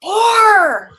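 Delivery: high, loud cry of four; emotional number. Shown as a demonstration. Coach playing the emotion game, shouting four. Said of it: "let's play the game".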